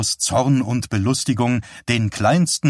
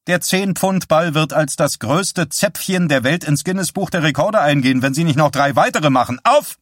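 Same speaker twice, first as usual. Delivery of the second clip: high, driving rant building to a shouted command; sadistically humorous drill instructor; shrill threat; 5 semitones higher than usual. A narrator's reading. Trainer threatens patient, barking orders.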